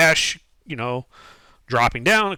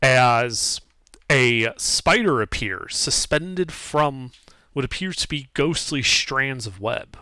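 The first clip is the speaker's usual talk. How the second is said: game master narration; slower than usual. Acted. GM sets the scene.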